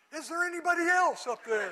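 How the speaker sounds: high, loud, laughing through the punchline; hopeful punchline. Retold or imitated. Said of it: "the guy says".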